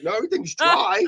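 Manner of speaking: high-pitched mock bafflement; puzzled protest. Drunk man checking himself, high-pitched mock bafflement. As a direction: squeak out a retold, confused denial.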